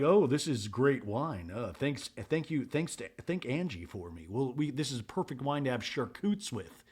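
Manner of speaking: hushed, low impression of a husband enjoying wine; mock husband. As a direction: softly mumble thanks in a low mock-husband voice. Imitates Jared drinking the wine.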